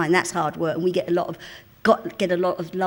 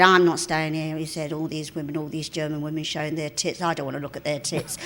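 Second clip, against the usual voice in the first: imitating Kenny; 4 semitones lower than usual. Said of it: "And he said".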